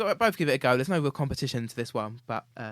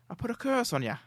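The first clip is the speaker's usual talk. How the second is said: mock witch curse; 10 semitones higher, 4 dB louder, faster than usual. Impression game, witch guess.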